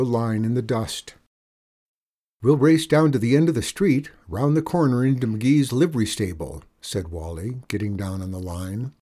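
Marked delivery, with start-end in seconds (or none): 2.4-6.6 put-on eager boy. Boy explaining the race to outlaws, eager. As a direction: lay out the course eagerly.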